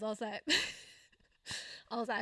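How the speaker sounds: laughing through the words, quick; laughing while telling. Real, not acted. New mom laughs at herself while telling. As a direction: giggles break in as she recalls it. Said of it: "I don't know why I'm laughing".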